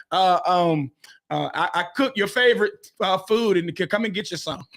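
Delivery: halting, hesitant mock apology; sheepish parent. Parents dodging an apology to their kids, sheepish and halting.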